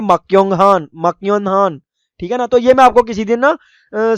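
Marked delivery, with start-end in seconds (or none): 0.0-1.8 मक्योंग हान with hard k instead of ng; common misreading. Shown as a demonstration. Teacher shows how learners read it, hard k in मक्योंग हान. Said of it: "लेकिन हम पढ़ते हैं कि".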